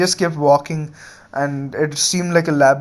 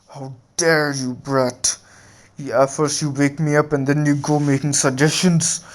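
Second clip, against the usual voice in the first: indignant beast voice, no shouting; understated wrath of a woken monster; angry Ninetales. Retold or imitated. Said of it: "actually got pretty angry at this".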